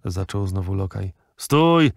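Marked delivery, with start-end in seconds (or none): 1.4-1.9 loud, high barked stop; furious journalist yelling stop. Acted. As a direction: yell to silence him. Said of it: "wrzasnął dziennikarz".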